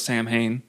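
"Sam Hain" said as SAM-hayn; pronounced as spelt. Shown as a demonstration. Host owning up to his old reading, SAM-hayn. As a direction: give "Sam Hain" its written m and h. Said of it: "I'm saying it like it looks".

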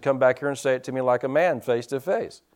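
quiet, low-key retelling of a holler; retold holler. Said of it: "I hollered at the guys and said".

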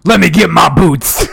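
high, loud, drawn-out holler; eager recruit. Acted. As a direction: play a gung-ho volunteer.

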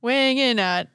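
slow boxing ring announcer call; fighting game announcer. Pretend. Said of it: "the announcer voice too".

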